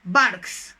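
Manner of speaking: isolated words with long gaps; word-by-word dictation. Shown as a demonstration. Teacher gives dog examples of can, word-by-word dictation. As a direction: set each word down separately, firmly.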